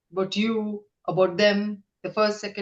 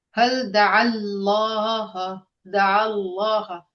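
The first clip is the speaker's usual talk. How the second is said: staccato; much slower than usual. Shown as a demonstration. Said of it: "take out each word separately".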